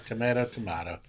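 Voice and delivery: first tomato with "may", second tomato with "mah"; tomato said "to-MAY-to", then tomato as "to-MAH-to"; offhand "to-MAY-to, to-MAH-to"; two pronunciations contrasted. Shown as a demonstration. Echoes the two pronunciations just contrasted.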